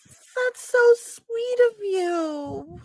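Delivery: high gasping damsel voice; mock teary breathy damsel; helpless damsel. Player keeps damsel act.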